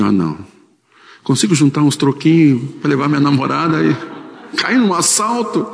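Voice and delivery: can't believe his luck, rising to a high pitch on "assalto"; dismayed disbelief. Retold or imitated. Pastor recalling his own dismay at the robbery, rising disbelief.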